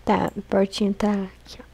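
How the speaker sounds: soft unvoiced whisper while sneaking; hushed stealthy whisper. Real, not acted. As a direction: breathe the words so nothing hears you. Sneaking near the monster.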